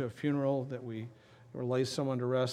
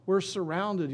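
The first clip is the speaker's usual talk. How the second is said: higher-pitched mock panic; acted alarm; 5 semitones higher, slower than usual. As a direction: cry it like a frightened lookout. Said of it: "he knew they were coming for them".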